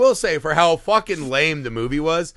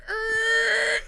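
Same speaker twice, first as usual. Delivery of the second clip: high, thin creaking noise; imitated statue noise; 6 dB quieter than usual. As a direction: creak like stone coming to life. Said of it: "the statue's like".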